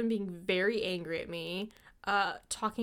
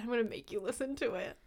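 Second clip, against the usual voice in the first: whispering; 8 dB quieter, faster than usual. Acted. Teasing whispered threat.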